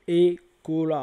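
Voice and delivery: "Ekola" said firmly as a key word; pronunciation demo. Shown as a demonstration. Teacher shows how the word is said, "Ekola" pronounced clearly. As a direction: present "Ekola" clearly for the listeners. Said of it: "regardez comment ça se dit".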